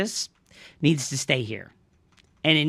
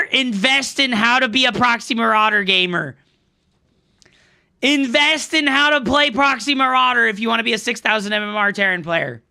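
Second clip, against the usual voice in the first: mock sales pitch; 8 semitones higher, 5 dB louder than usual. Real, not acted. Mocking ad pitch after loss.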